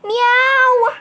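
high, loud cat meow; kitten meow. Pretend. Kitten voice higher.

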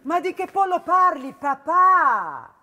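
fed up and baffled; can't believe what she's hearing; exasperated disbelief. Acted. Daughter exasperated about the chicken.

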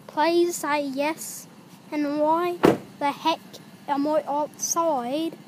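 put-on British accent, measured delivery; hammy British vowels. Shown as a demonstration. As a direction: keep up the mock British voice. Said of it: "This is how British people talk".

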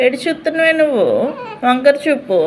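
teasing through laughter; laughing. Real, not acted. Laughing at baby's look.

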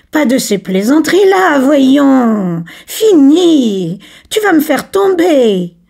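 high, loud, giggly protest; laughing protest. Acted. Camille is seized by Laurent and laughs, tickled. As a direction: squeal as if tickled. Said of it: "Le commis éclata de rire".

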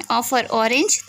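"O for orange" very slow, each word drawn out; slow phonics drill. Shown as a demonstration. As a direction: spell it out slowly for small children. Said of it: "तो sound किसकी निकल रही है". (धीमे-धीमे बच्चों को सिखाते हुए)

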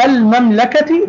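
المملكة with a clear l before m; moon lam. Shown as a demonstration. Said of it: "عرفنا أنها لام قمرية". (نطق «المملكة» بلام ساكنة واضحة)

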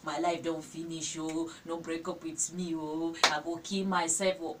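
slow, whiny imitation of a begging girlfriend; hammed-up weepy begging; mock crying plea. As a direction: mimic a crying girl pleading, half-hearted. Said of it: "you go come dey cry say".

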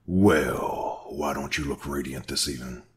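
sneering mock compliment; mock the captive with false flattery. A narrator's reading. Masked man taunting his captive, mocking.

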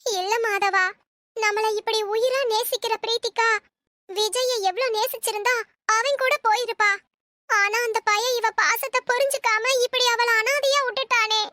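tearful lament, building in pitch; crying. Acted. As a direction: grieve aloud, close to breaking into sobs. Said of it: "அம்மா, அம்மா அழாதீங்க". (அழுதபடி புலம்பும் குரலில்)

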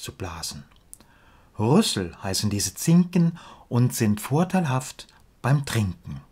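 measured verse reading with pauses at line ends; deliberate, lilting rhymed delivery; poem recitation. Acted.

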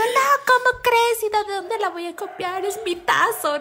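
put-on indignant little girl. Little girl insisting to her brother she drew it, high and indignant. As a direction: plead your innocence like a wronged kid.

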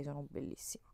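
soft and unvoiced; slipped out like a private joke; whispered joke. Vlogger imitating herself at the mirror, whispered punchline. Joking self-compliment quote.

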